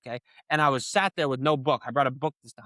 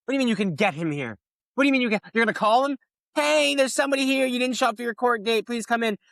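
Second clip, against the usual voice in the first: incredulous retort; 8 semitones higher than usual. Retold or imitated. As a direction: scoff at her plan. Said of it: "retold reply to the prosecutor".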